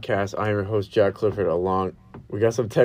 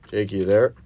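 raised voice, rising question; calling out; 7 dB louder, slower than usual. Real, not acted. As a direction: call out to someone on the line. Calling caller on the phone.

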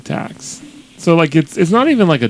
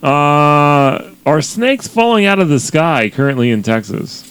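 raised anchor delivery, lightly hammed up; mock news anchor; 3 semitones higher than usual. Cohost throwing to Texas correspondent, mock anchor. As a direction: hand off like a TV anchor.

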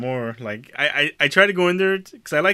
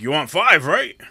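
higher, loud mock-clueless clerk; clerk sballato; 5 semitones higher, 7 dB louder, slower than usual. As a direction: imitate a messed-up clerk checking the order. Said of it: "just all fucked up".

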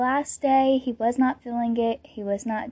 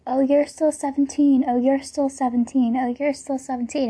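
mocking; 3 semitones higher than usual. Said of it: "the most annoying thing ever".

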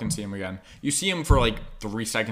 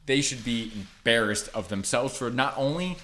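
mock outraged review. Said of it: "here is my thirty-second review".

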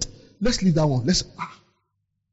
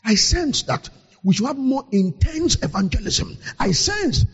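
oracle voice. Retold or imitated. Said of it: "speak like an oracle".

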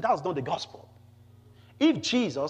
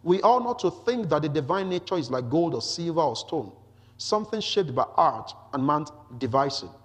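emphatic, slightly raised public reading; scripture reading. Acted. Preacher reads Paul's Athens speech to the congregation, emphatic scripture reading. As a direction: read the passage out firmly to a congregation.

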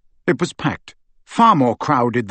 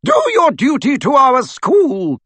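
rallying shout; 12 semitones higher, 4 dB louder than usual. A narrator's reading. McGonagall shouting to the statues, rallying. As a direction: sound the alarm for the whole castle.

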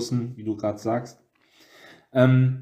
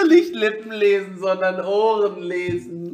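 laughing; 7 semitones higher than usual. Real, not acted. Joke keeps her laughing.

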